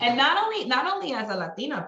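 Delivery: high, amused start through real laughter; laughing. Real, not acted. Agreeing with host about her mom, laughing. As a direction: talk through the tail of a laugh.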